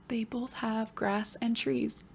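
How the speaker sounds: put-on soft whispered child's reply; whispered student answer. Pretend pupil answering the teacher, whispered.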